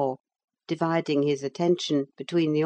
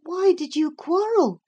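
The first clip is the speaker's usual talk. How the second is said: put-on crestfallen girl; 13 semitones higher, 3 dB louder than usual. A narrator's reading. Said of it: "considerably crestfallen".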